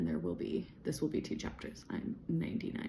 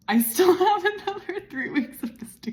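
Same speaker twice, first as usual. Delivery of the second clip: laughing whisper; 13 semitones higher, 11 dB louder than usual. Real, not acted. Laughing at remaining weeks.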